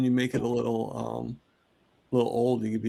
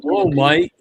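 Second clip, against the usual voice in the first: squeaky greeting; 8 dB louder than usual. Acted. Greeting, jokey voice.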